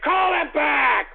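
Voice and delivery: impatient shout. Real, not acted. Yelling at engineer.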